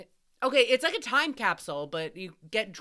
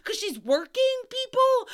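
rising, louder sarcastic jab; 9 semitones higher, 3 dB louder than usual. Real, not acted. Telling the audience the waitress was working, sarcastic and rising. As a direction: say it like it's obvious. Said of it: "sarcastic punchline to audience".

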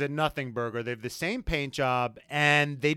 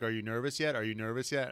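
put-on teasing girl; 5 semitones lower, 6 dB quieter, faster than usual. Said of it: "girls would ... be like".

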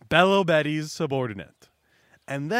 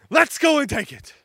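"Let's go and take it" yelled out much higher and louder; yelled rally; 10 semitones higher, 6 dB louder than usual. Retold or imitated. Buggy yelling his rally cry to the crowd. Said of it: "And then he yells".

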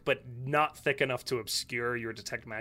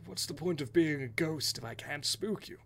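ghost voice; 5 dB quieter than usual. Acted. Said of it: "kind of doing an act".

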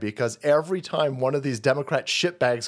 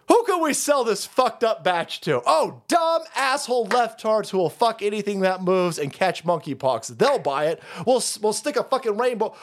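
higher-pitched acted company pitch; mock scheming; 6 semitones higher than usual. Company men plot selling a fallen batch, mock scheming. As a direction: act out an eager huckster hatching a plan.

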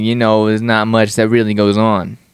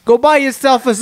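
higher-pitched attempt at an Aussie narrator; Australian accent; 12 semitones higher than usual. Mimicking car commercials for laughs, attempted Australian accent. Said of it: "like, Australian guy fucking narrating it".

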